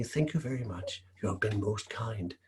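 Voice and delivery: soft whisper. Acted. Humble girl whispering thanks to the embarrassed lady. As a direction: breathe the thanks almost silently.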